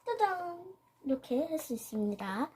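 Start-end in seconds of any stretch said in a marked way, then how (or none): 0.0-0.8 ta-da. Real, not acted. Reveals finished piece.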